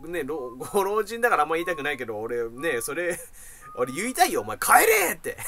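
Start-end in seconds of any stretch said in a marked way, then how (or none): 4.4-5.4 higher and louder, laughing through the words; a laughing outburst. Real, not acted. The annoyed patient laughingly wishing he could send the old man home. Wishes to tell him leave.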